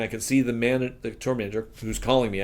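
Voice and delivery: ordinary talk, nothing marked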